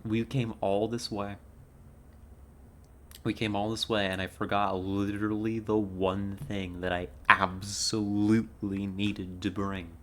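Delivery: loud exasperated rant; frustrated. Real, not acted. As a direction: vent loudly at yourself. Upset with herself, forgot something.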